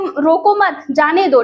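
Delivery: short break between "मत" and "जाने दो"; pause after MAT. Shown as a demonstration. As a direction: say "रोको मत" as one unit, then "जाने दो". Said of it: "एक तो पहले में कहा जा रहा है". ("मत" के बाद विराम)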